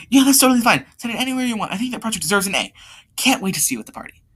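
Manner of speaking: high-pitched, friendly reply; lightly voiced high girl's voice; girl on the phone. Laura answering friend's call, acted.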